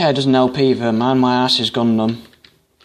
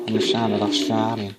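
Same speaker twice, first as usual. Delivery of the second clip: badly faked Australian accent, softer; poor Australian accent; 2 semitones lower, 5 dB quieter than usual. Shown as a demonstration. Gamer poking fun at himself for sounding Australian, bad Australian accent. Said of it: "slay the fuck out of my accent".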